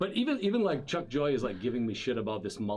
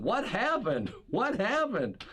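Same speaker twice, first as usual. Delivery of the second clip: mock worried Susie; 9 semitones higher, slower than usual. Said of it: "and Susie's like going".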